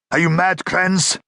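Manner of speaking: a captive crying out at his captor in alarm. A narrator's reading. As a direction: cry out at him in disbelief. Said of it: "cried the other man".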